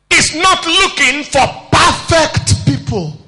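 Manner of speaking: slow preaching shout, hit not; shouted emphasis. Shown as a demonstration. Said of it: "I want to say it this way".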